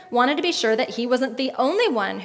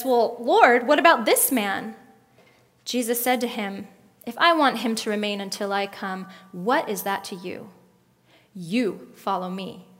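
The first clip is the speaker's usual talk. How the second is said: firm scolding mother voice; stern mom reprimand. Acted. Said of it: "That's my mom voice".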